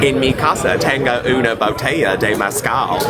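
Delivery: Spanish quote said through laughter; laughing at the Southern-accent Spanish. Retold or imitated. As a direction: repeat his line while cracking up. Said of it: "That was a quote".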